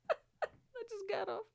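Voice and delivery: voiceless, slow whisper; whispered aside. Retold or imitated. Comedian leaving the stage early, defeated whisper. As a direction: whisper it like slinking away.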